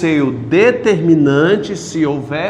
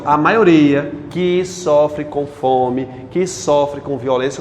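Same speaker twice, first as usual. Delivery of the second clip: slowed demo phrasing; 2 semitones lower, slower than usual. Shown as a demonstration. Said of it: "eu coloquei duas orações adjetivas no meio".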